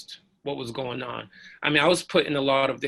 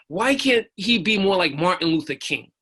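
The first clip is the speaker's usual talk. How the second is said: higher, pleading complaint; exasperated question; 5 semitones higher, 4 dB louder than usual. Retold or imitated. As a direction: imitate an exasperated sergeant. Sergeant's exasperated question, retold.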